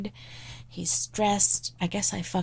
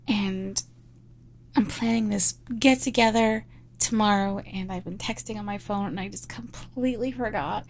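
breathy, pleading apology to the boss; sorry, flustered, eager to please; apologetic secretary roleplay; 3 semitones higher than usual. Acted.

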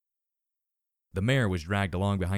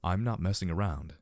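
calm. Acted. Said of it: "without the slightest raise".

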